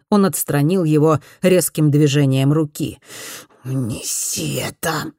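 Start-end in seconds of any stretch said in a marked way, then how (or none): 3.6-5.1 hoarse voice. A narrator's reading. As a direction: rasp it out like a weary old boss. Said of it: "прохрипел Дон Кентеро". (хрипло и медленно, низким голосом)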